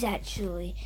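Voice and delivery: soft whispered aside. Acted. State whispering the aside to Massachusetts. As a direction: whisper the last word.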